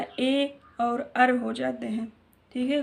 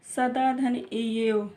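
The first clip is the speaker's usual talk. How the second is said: slow dictation; much slower than usual. Shown as a demonstration. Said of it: "dictating sandhi split".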